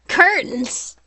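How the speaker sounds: shouted high and loud in alarm; startled cry of curtains; shocked exclamation. Acted. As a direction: blurt it out in sudden horror.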